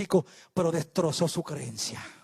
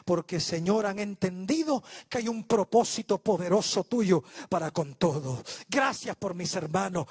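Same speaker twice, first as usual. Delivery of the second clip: fervent public prayer; 2 semitones higher, 3 dB louder than usual. Real, not acted. Preacher thanking God and blessing the congregation, fervent closing prayer. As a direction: pray aloud earnestly in measured, swelling phrases.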